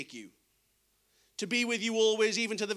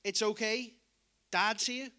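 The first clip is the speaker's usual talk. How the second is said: gentle fatherly comfort. Retold or imitated. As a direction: reassure a frightened child. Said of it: "If I can say it like this".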